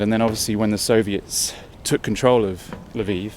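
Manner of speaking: breathless from the steep climb; talking while winded on the stairs; out of breath. Real, not acted. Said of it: "you can sense I'm getting out of breath now".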